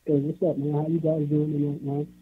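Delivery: muffled, like from a closet. Real, not acted. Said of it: "you sounding kinda muffled".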